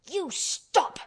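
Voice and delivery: high, sharp cry to stop him; almost shouting. A narrator's reading. Mary cutting off the screaming boy's tantrum, almost shouting. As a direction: snap it out at the screaming boy. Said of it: "she almost shouted".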